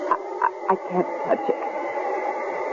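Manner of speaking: hushed, very slow, trembling with dread; terrified whisper. Acted. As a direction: barely get the words out in horror. Terrified woman refuses bloody axe.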